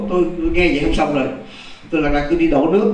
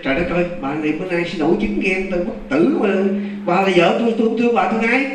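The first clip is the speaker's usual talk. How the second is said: higher-pitched retold protest, rising as it goes; mildly exasperated, building to a high insistent question; exasperated husband; 3 semitones higher than usual. Husband thinks wife is throwing a jealous fit, exasperated.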